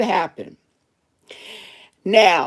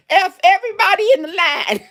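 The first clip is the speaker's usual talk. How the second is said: half-laughed mock shout of defiance; laughing defiance; 5 semitones higher than usual. Coworker quitting her register, laughing it off. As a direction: toss it off laughing. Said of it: "I said".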